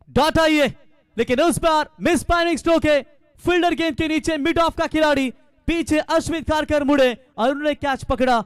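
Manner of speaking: rising excitement as the wicket falls; excited cricket commentary. Real, not acted. Wicket falls, catch taken live. (उत्साहित cricket commentary)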